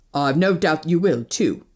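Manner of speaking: low, unconcerned man's voice; indifferent. A narrator's reading. Stranger dismisses woman's threat, indifferently. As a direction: shrug it off, dropping low. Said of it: "he said indifferently".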